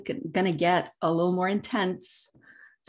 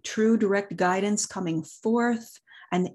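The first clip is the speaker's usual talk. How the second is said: guided meditation. Acted. Continues meditation.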